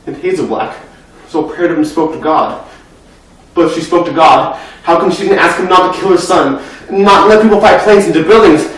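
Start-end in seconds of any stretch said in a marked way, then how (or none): 3.5-8.7 upset questioning. Acted. Questions why God allowed the killing.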